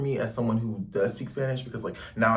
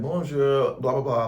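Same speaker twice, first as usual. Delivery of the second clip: French greeting; 3 semitones higher, 5 dB louder than usual. Retold or imitated. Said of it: "They're like".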